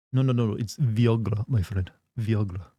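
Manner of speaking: put-on European accent, "Viagra" as vee-OG-la. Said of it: "speaking in their accent".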